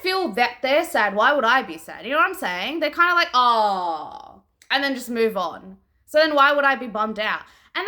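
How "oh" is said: long, falling, lower "oh"; a drawn-out token sigh of sympathy; mock disappointed "oh". Reader mimicking characters who barely react to deaths, token drawn-out "oh".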